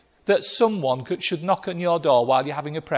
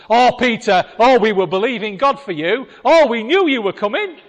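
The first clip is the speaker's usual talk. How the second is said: mock gushing welcome; 4 semitones higher, 8 dB louder than usual. Mocking relieved prayer group.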